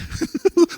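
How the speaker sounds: sudden high-pitched laugh; short squeal of a laugh; high burst of laughter. Real, not acted. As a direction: crack up at the joke. Preacher laughs at own joke.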